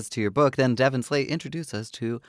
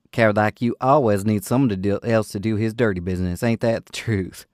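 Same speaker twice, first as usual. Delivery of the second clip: a louder, contemptuous retort; spat out; 4 dB louder than usual. Acted. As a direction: spit the words at the brute. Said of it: "the young woman spat out".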